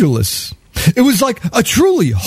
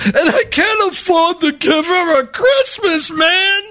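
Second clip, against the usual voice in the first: panhandler's pitch; 8 semitones higher than usual. Retold or imitated.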